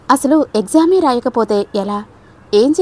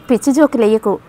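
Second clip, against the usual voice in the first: irritated. Acted. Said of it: "విసుక్కున్నాడు శ్యామ్".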